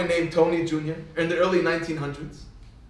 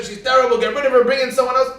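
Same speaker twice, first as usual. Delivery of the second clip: loud, raised-pitch heckling; mock public outrage; 6 semitones higher, 7 dB louder than usual. Everybody would bash Theresa May, mock outrage. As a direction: bash her like an indignant crowd. Crowd bashing the prime minister.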